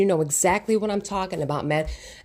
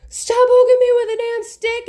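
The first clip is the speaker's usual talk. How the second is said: much higher, much louder furious yell; exploding shout; 14 semitones higher, 6 dB louder than usual. Retold or imitated. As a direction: finally snap and scream it out. Pushed too far, finally explodes.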